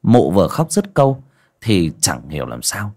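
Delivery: measured ghost-story narrator with dramatic pauses; storyteller setting a grim village scene; story narration. A narrator's reading. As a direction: narrate it phrase by phrase, pausing between.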